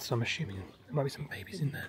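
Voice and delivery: library whisper. Real, not acted. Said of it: "I'm just whispering 'cause it has to be quiet".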